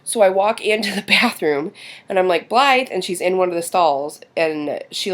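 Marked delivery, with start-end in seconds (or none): 2.5-2.9 higher, louder retold call. Mom calls for daughter in school bathroom, calling out. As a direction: call a child's name into a room.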